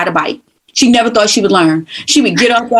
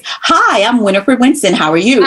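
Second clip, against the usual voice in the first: bright professional greeting, Hi pitched up; a hint of a polished broadcaster introducing herself; polished communications voice. Shown as a demonstration. Guest demonstrating her trained communications voice, lightly polished. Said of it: "communications voice".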